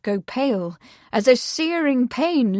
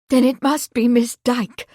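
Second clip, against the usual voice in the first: firm, sure of herself; a touch of decided mother; 3 semitones higher, 5 dB louder than usual. Acted. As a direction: settle it firmly. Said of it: "Lady Marsden said decidedly".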